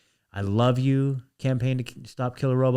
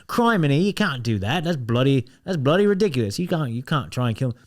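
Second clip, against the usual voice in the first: mock British accent. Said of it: "that was Australian".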